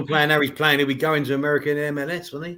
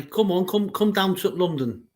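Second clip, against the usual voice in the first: mock Martial accent; 4 semitones higher, slower than usual. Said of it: "that was my impression of Martial".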